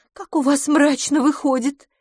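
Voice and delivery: высокое шутливое восклицание; поддразнить подругу; playful exclaim. A narrator's reading. Heroine reacts playfully. (шутливо, высоко)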